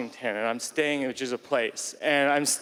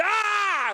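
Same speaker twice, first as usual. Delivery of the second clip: piercing high scream of Ah. Retold or imitated. Leaping through the motel window, a high Ah scream. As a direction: scream as you leap through glass. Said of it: "I screamed".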